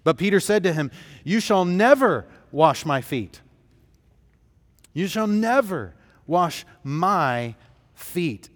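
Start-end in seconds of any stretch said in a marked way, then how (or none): 1.2-8.5 "never" hit hard, slowing on the repeat; flat refusal, stamping on "never"; emphatic refusal. Acted. Preacher voicing Peter refusing Jesus, emphatic stress on "never".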